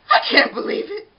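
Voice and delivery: breathless unvoiced gasp of shock. A narrator's reading. Arnie learns from the baker that donuts are eaten, gasped without voice. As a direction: breathe it out in disbelief. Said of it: "Arnie gasped".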